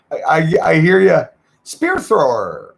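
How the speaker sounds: hearty call-out to a viewer; yelling. Real, not acted. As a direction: holler the name, drawing it out. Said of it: "Sorry for yelling in your ears".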